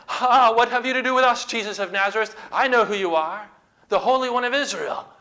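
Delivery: a cornered demon shrieking recognition; demon crying out. Acted. Demon recognises Jesus in synagogue.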